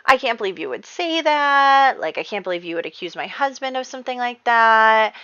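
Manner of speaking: outraged wife defending her husband; furious. Retold or imitated. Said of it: "And Jane is so furious".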